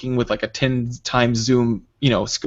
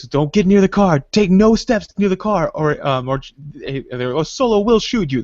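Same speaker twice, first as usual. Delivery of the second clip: mock stern warning; 6 semitones higher than usual. Friend's mock threat.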